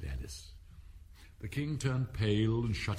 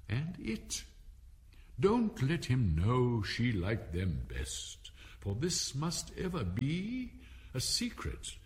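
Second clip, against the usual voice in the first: verse recitation; 3 semitones higher, slower than usual. A narrator's reading. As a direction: recite each line deliberately, lifting the pitch.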